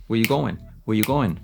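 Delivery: quick linked WEH-you-GO-en; contracted form. Shown as a demonstration. Teacher alternating forms, contracted native form. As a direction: clip "where" to WEH, skip "are". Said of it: "alternar así".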